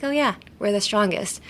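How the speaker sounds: casual, unemphasised we're the strongest; everyday matter-of-fact. Shown as a demonstration. Speaker states it as if nothing special, casual. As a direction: say it like an everyday thing. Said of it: "like, an everyday thing".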